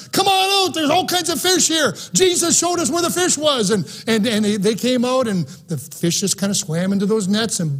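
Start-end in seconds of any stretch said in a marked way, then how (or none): 0.1-3.7 high, carrying call across the water to the shore. Retold or imitated. Yell out to the partners, mock call. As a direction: fishermen call their partners on shore, raised shout.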